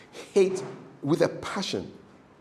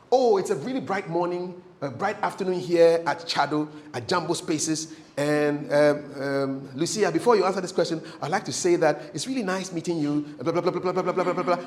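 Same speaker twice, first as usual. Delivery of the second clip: mock rambling interviewer intro; long-winded questioner. Interviewer padding a question for guest Lucia, long-winded. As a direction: pad it out, trailing into rattled-off blahs. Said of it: "you give long questions".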